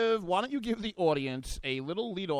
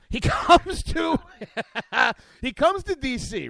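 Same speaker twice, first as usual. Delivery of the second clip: put-on Italian accent; 5 semitones higher, 5 dB louder, slower than usual. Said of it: "I don't know why I'm doing this in Italian".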